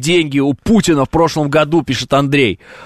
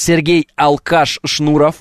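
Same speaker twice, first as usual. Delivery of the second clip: boxing ring announcer; slower than usual. Pretend. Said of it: "знаешь, как должно быть?".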